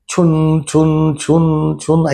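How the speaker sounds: evenly spaced, level-pitched "chhun" sounds; imitated jingling. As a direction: imitate a repeating jingle on one steady note. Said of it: "ऐसी आवाज आती थी". (छुन-छुन की आवाज़ की नकल)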